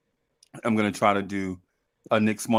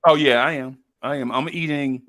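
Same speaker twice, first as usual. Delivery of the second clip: munching popcorn; 4 semitones higher, 4 dB louder than usual. Real, not acted. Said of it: "I'm eating popcorn right now".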